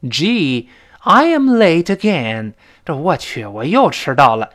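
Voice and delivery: fed up with yourself; mock exasperation; annoyed. Shown as a demonstration. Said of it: "恼火".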